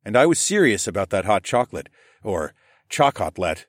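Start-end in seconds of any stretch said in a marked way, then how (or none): 2.9-3.6 "chocotlet" said slowly, with an extra t before the last syllable; Rylan's mispronunciation. A narrator's reading. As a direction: say "chocotlet" carefully, as a garbled chocolate. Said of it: "as Rylan called it".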